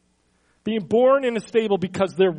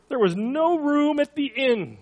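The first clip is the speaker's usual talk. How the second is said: put-on high-pitched kid in a nativity play; little kid voice; 6 semitones higher than usual. Preacher mimicking a kid play's innkeeper, little kid voice. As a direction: pipe up like a little child, drawn-up pitch. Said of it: "in this little kid voice".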